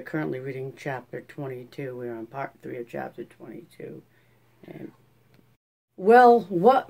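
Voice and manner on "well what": loud, high, impatient question; pitched-up, forceful demand. A narrator's reading. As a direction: demand an answer, louder and higher. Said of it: "Ma demanded".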